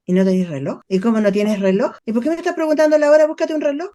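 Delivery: impatient, scolding, speeding up; critical parent. Retold or imitated. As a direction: snap back like a critical parent who hates being asked. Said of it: "me respondes desde el padre crítico". (padre crítico, impaciente y regañón)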